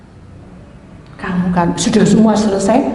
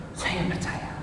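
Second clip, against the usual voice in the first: barely voiced whisper of faith; whispered belief; 15 dB quieter than usual. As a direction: breathe it out as a whisper. Whispered faith reply to angel. (berbisik percaya)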